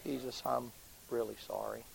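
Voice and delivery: soft, hushed repentance; whispered apology. Retold or imitated. Prisoner's quiet repentance, hushed whisper. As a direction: breathe it out like a confession. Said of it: "Just her way of shouting".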